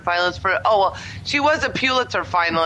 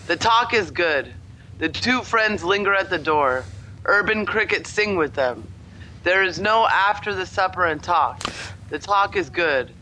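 measured recital, pausing at each line; poetry reading. Pretend. Reading another poem to a friend, measured poet recital. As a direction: intone it lightly like a poet at a reading. Reads a second poem aloud.

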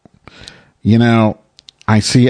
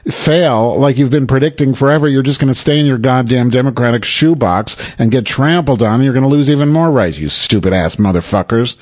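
higher, rising exasperated rant; ranting at Democrats who expect Trump to fail; heated rant; 6 semitones higher than usual. Real, not acted. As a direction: vent your fury at the listeners.

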